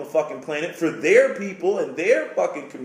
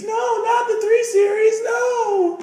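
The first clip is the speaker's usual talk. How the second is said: much higher, louder shouted refusal; mock parent shout; 3 dB louder, slower than usual. Parent refusing the kid the BMW, high shouted no. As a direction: bark it out like an outraged parent.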